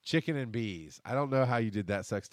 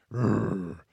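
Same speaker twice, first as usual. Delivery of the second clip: mock grumpy growl; little imitated growl of irritation; 2 semitones lower, 3 dB louder than usual. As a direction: growl like a cranky bear. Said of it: "I was coming off as".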